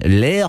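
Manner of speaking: "Lair" with a rising French vowel; "Lair" as a Norman would say it; French-sounding Lair. Shown as a demonstration. Showing the host Waterford's French root, rising "Lair". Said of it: "It's very French".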